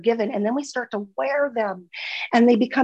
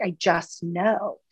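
quiet knowing; slower than usual. Retold or imitated. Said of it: "have you been like".

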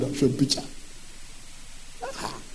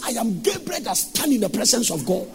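mild sung angel's proclamation; Gabriel's voice; 6 semitones higher than usual. Acted. Preacher voicing Gabriel rebuking Zachariah, sung. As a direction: lightly intone it like the angel Gabriel. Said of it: "look at the way he talked".

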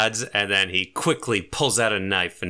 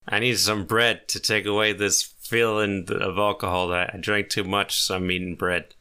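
lightly voiced drunk demanding bread; a hint of tipsy belligerence; drunken man. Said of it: "He's obviously drunk early in the morning".

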